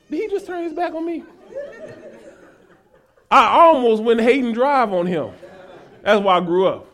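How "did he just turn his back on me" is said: quick, higher, softer incredulous question; affronted disbelief. Acted. Preacher replaying reaction to supervisor turning his back, affronted disbelief. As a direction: mutter it in offended disbelief.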